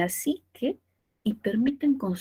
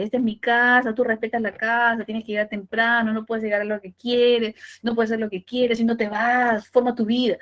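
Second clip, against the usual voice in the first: a hint of a scolding father; stern father; 4 dB louder than usual. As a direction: scold like a strict dad, firm. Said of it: "pero su papá le dice". (un toque de padre estricto regañando)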